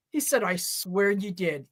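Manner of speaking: ordinary delivery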